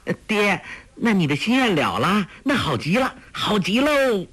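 high, gleeful daughter's voice; delighted girl. A narrator's reading. Daughter delighting in her father's wish, high and gleeful. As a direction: she claps and cheers for her father. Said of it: "黄蓉喜道".

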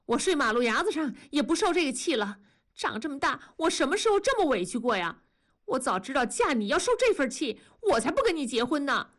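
hurt angry outburst. Acted. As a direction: fire it back at him, wounded and fast. Wife quarrels at night, crying. (半夜委屈地冲丈夫快速发火)

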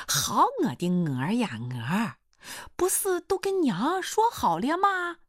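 lightly voiced suitor, slow and coaxing; a touch of drawn-out mock pleading; cheeky would-be son-in-law. Suitor pleads before leaving her house, lightly wheedling. Suitor protests then takes leave.

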